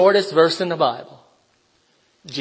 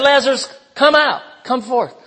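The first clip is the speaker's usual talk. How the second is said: calling out; 6 semitones higher than usual. Retold or imitated. Jesus calling Lazarus from tomb.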